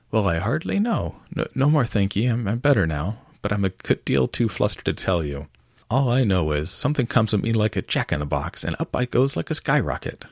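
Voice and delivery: a hint of a shaken little lizard; feeble squeaking voice. Bill telling the others of his flight, mildly squeaky. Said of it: "a little feeble squeaking voice".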